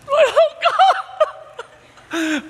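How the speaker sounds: high burst of relief; relieved cry. Retold or imitated. Seeing the crying girl found, high relieved cry. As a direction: gasp it out in relief. Finding the lost child.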